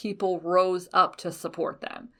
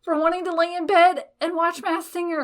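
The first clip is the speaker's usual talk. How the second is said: laughing husband quote; 9 semitones higher, 4 dB louder than usual. Retold or imitated. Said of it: "He's like".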